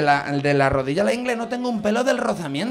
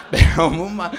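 laughing loudly; 3 semitones lower, 9 dB louder, slower than usual. Real, not acted. Laughing at the awful socks.

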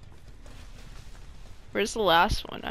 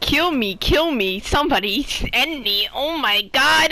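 exasperated wail; 5 semitones higher, 4 dB louder than usual. Real, not acted. Exasperated wailing at own mistake.

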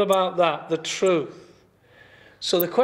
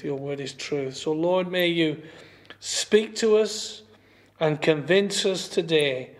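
prayer. Real, not acted. Pastor praying over the congregation, earnest prayer. Opening prayer before the sermon.

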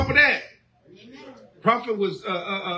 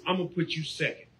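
mock lazy member; 2 semitones lower than usual. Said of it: "What you're doing is you saying".

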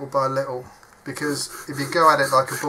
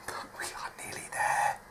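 hushed whisper to the camera; 8 dB quieter than usual. Real, not acted. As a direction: let it slip out as a secret whisper. Aside while the glue sets.

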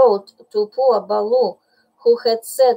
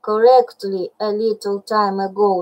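impatient. Acted. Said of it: "said Bagheera impatiently".

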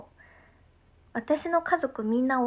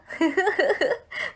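laugh; 5 semitones higher, 5 dB louder than usual. Real, not acted. Laughing at recalled scene.

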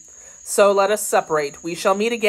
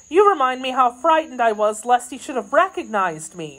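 higher, anxious maid's voice; frightened maid; 6 semitones higher than usual. Acted. Kitty fearing she was recognized, anxious. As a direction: recall the fright in a raised pitch.

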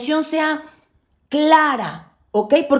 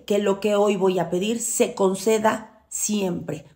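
humble plea; 3 semitones lower, 4 dB quieter, slower than usual. Shown as a demonstration. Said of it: "siempre se pide humildemente".

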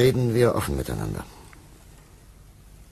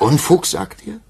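sharp retort, higher and louder; indignant; 8 semitones higher, 6 dB louder than usual. Acted. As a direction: throw the word back at him. Minister bristles at the word.

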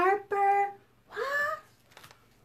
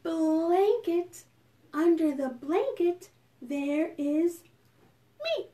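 slow, softening recitation; hushed, lilting verse; bedtime rhyme; slower than usual. Pretend. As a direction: lead children gently through a rhyme with pauses.

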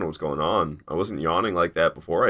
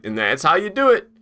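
mimicking boss; 9 semitones higher, 4 dB louder than usual. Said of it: "he's like".

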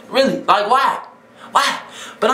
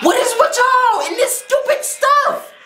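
very high, stretched complaint; exasperated outcry; 13 semitones higher, slower than usual. Real, not acted. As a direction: squeal in exasperation at the viewers. Exasperated at the clip.

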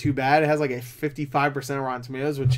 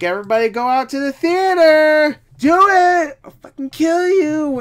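higher, louder hammed-up Oprah; a hammed-up celebrity demand, higher and louder; mock Oprah; 12 semitones higher, 7 dB louder than usual. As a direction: bark it like a celebrity ordering fans, half joking. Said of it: "did Oprah say, like".

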